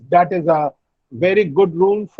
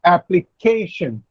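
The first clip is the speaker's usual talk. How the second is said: "Application" with the weight on "ca"; stress on KAY. Shown as a demonstration. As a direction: stress the third syllable of "Application", ap-pli-KAY-shun. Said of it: "K comes before the last syllable".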